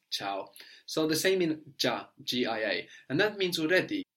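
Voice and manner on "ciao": ciao starting with a plain "ch", the I silent; ch sound. Shown as a demonstration. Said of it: "just giving us ch".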